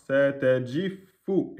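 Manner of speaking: "J, fou" with the f doubled; shedda pronounced. Shown as a demonstration. Teacher demonstrating the shedda for learners, doubled f pronounced. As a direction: hold a double f linking "J" to "fou". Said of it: "on prononce avec la shedda".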